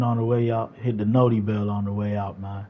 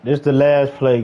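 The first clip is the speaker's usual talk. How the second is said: loud burst at the last play; hype shout; 2 semitones higher, 3 dB louder than usual. Real, not acted. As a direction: yell it out to the chat. Streamer yelling at the final game play.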